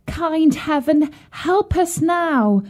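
crying plea. A narrator's reading. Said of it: "she cried".

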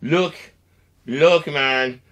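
a loud, fed-up warning to the Hot Pocket thief; fed-up confrontation. Acted. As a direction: snap him to attention, annoyed. Confronting a roommate over Hot Pockets.

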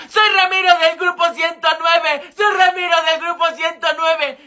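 mild mock yell, said twice in a row; retold yelling. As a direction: call out his name and group as if stones were flying. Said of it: "yo les gritaba".

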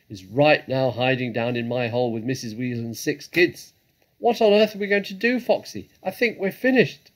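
loud, agitated character voice; worked-up, booming badger in a panic; frantic badger. A narrator's reading. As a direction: rattle off the plight loudly, ending high and desperate. Badger's frantic account continues.

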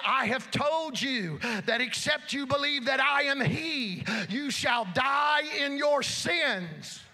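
emphatic preacher's retelling, slowing at the end; emphatic declaration. Retold or imitated. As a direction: quote it emphatically, drawing out the final warning. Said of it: "He stated emphatically to those that said".

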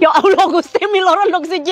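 laughing. Real, not acted. Laughing at big breakfast.

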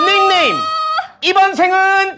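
high, loud, drawn-out winner shout; booming prize announcer. Acted. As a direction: belt the congratulations like a show host. Announcing giveaway winner live.

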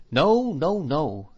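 high opening, settling as it repeats; servant's insistent refusal, starting well up in pitch; emphatic denial. A narrator's reading. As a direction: dismiss the idea firmly. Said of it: "shaking her head".

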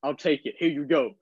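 slow, lightly voiced grudging rapper; reluctant seller. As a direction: hand it over with reluctance, slowly. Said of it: "he kinda gave me the look like".

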